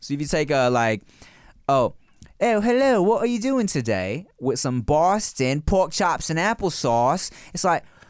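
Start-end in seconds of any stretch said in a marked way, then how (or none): 1.7-4.3 jokey put-on British accent, pitched up. Explaining how to mix accents, first demonstrating the British part; British accent. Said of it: "a British accent".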